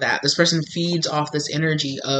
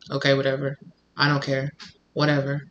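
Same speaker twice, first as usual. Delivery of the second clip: dismissive; 2 semitones lower, 6 dB quieter than usual. Retold or imitated. Checked-out partner stonewalling someone who screams, dismissive. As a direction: shut them out quietly, couldn't care less.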